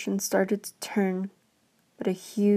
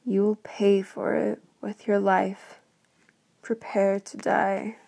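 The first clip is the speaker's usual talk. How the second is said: beast's death threat. Acted. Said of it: "eyes blazed with rage".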